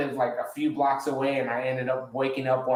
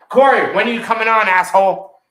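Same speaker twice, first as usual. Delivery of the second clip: mock yell across the room, much higher and louder; hollering a friend's name, hammed up; imitating a yell; 7 semitones higher, 11 dB louder than usual. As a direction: call out to Corey like a rowdy mate. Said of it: "He goes like this".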